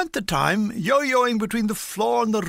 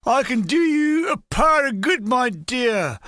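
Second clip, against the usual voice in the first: shouted higher from the lorry; shouted catcall; 4 semitones higher, 4 dB louder than usual. Retold or imitated. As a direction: call it out loud to the girls. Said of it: "They ranged from cries like".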